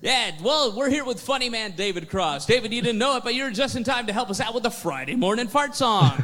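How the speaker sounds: a hint of a chirpy radio host; lightly voiced morning DJ; mock radio DJ. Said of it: "mocking DJ interviewing David Cross".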